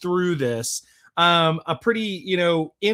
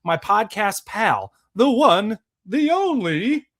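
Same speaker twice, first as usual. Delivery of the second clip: hype introduction; 3 semitones higher, 3 dB louder, slower than usual. Acted. Hyping up cohost entrance.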